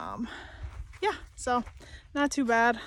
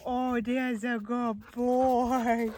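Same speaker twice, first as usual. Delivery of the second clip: whispered dog praise; much slower than usual. Real, not acted. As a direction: breathe the praise gently.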